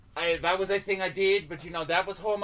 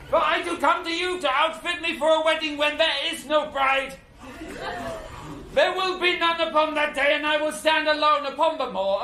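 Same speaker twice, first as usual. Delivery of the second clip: higher-pitched, theatrical declamation; mock-Shakespearean lament; 7 semitones higher, 3 dB louder than usual. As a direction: declaim the sorrow as a grand stage speech.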